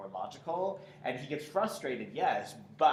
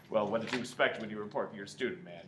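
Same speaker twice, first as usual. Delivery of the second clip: more subtle; 2 semitones lower than usual. Shown as a demonstration. Director showing actor the line after the fight's apex, subdued. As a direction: take it down, keep it subtle. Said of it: "so it's more subtle on the".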